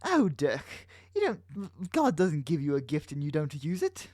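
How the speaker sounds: attempted character voice, badly faked; Jake. Teasing Dirk as his boyfriend, half-hearted impression. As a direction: try a put-on voice, not quite landing it. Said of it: "I can't do a Jake voice".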